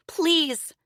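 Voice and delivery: put-on high, loud tearful girl's plea; crying plea. A narrator's reading. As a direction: beg through tears. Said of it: "she cried".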